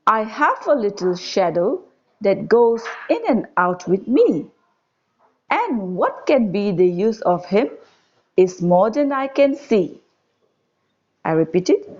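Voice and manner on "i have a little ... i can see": put-on measured, lilting verse reading to children; poem recitation. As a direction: recite it line by line with lifted key words. Reads the poem aloud to children.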